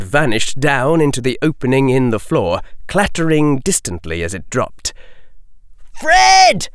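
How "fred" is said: high, loud anguished scream. Acted. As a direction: scream his brother's name. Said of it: "screamed George Weasley".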